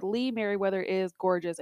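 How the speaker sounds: quoted note read out with emphasis; emphatic exclamation. Retold or imitated. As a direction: declare it like an underlined exclamation. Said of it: "underlined exclamation point".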